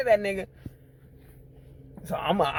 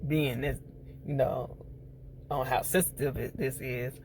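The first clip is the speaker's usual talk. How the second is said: low, subdued retold voice; measured explanation; 5 semitones lower, 8 dB quieter than usual. Recapping a man justifying himself to Trigger, low and measured. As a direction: quietly lay out a careful justification. Retelling a character's careful explanation.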